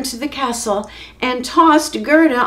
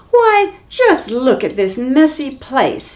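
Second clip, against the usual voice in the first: scolding; 3 semitones higher, 3 dB louder than usual. Acted. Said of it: "Beatrix scolded".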